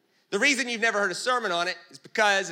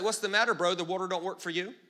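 sarcastic Jesus. Retold or imitated. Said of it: "And he's sarcastic".

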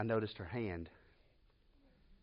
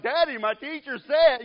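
much higher and louder, slow, mock child insisting; insistent little girl; 14 semitones higher, 14 dB louder than usual. Daughter insisting to her father about her teacher, mock loud childish. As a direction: plead like a stubborn little girl. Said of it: "So she's like".

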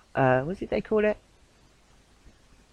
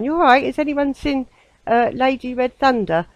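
put-on high-pitched call in a southern accent; imagined search call, put-on southern accent; 9 semitones higher, 3 dB louder than usual. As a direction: call out higher, playing up your southern accent. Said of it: "in my southern accent".

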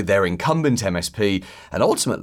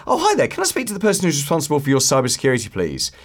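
bright caller voice; 3 semitones higher, faster than usual. Retold or imitated. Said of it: "start at the beginning of the call".

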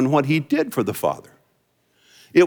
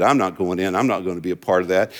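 sulky refusal; 9 semitones lower, faster than usual. Retold or imitated. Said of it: "after he said".

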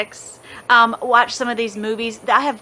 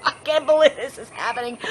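laughing disbelief; 3 semitones higher than usual. Retold or imitated. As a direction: giggle through it as if it's unreal. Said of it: "We're just like".

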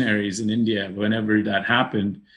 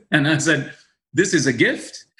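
laughing; 4 semitones higher than usual. Retold or imitated. Laughing retelling a job offer.

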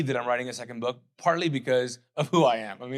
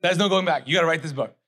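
firm wife; 5 semitones higher, 9 dB louder than usual. Retold or imitated. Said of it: "She's like".

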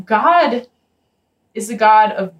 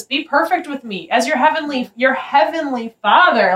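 loving invitation; 5 semitones higher than usual. Retold or imitated. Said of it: "that's like a loving invitation".

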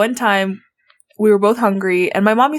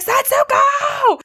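high, drawn-out mock yell; imitated mother's high-pitched call; mom calling out; much slower than usual. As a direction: holler a name through the house, stretched. Mom yelling for the sister.

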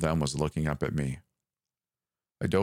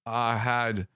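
hesitant; 5 semitones higher than usual. A narrator's reading. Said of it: "I said hesitantly".

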